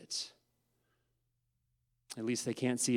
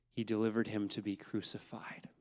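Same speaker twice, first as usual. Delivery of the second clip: whisper; 3 semitones lower, 6 dB quieter than usual. Acted. Solemn whisper of the verdict.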